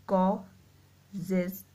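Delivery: कॉजेज drawn out slowly, the जेज ending clear; slow demo word. Shown as a demonstration. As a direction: stretch कॉजेज to show the जेज sound. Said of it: "जेज की sound आ रही है". (कॉजेज को धीरे खींचकर बोलना)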